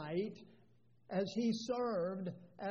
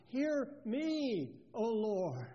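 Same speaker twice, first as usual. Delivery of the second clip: pleading; slower than usual. Retold or imitated. Preacher voices David's prayer to God, pleading. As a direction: quote it as a child's plea to God. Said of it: "This is the plea of a child of God".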